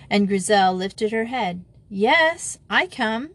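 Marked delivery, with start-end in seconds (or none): 1.9-3.3 high, cheerful answering call; calling back. A narrator's reading. Gisela answering the juniors from afar, calling back. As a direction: sing out a reply. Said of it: "she called back".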